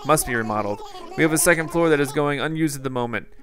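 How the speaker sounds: lightly voiced, eager museum director pleading; a hint of a fussy owl making his case; owl curator's lines. Museum director asking the mayor for funds, lightly voiced and earnest. Reads museum owl's dialogue.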